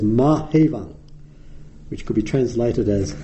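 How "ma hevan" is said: "Ma hevan" said as MAH heh-VAHN, falling at the end; Pali pronunciation of "Ma hevan". Shown as a demonstration. Monk reciting Pali to the listeners, "Ma hevan" said with a clear falling end. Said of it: "actually he says".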